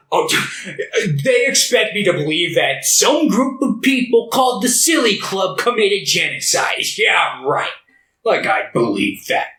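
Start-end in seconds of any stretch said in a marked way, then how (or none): 1.2-9.5 put-on scoffing, pitch falling away at the end; mock disbelief. Someone dismissing the Silly Club genocide story, mock disbelief. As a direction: scoff sarcastically at an absurd claim.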